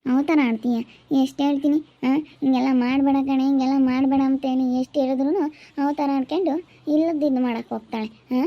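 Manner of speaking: exasperated stepmother's telling-off; angry scolding. Acted. Stepmother scolds the girl in quarrel. (ಕೋಪದಿಂದ ಗದರುವುದು)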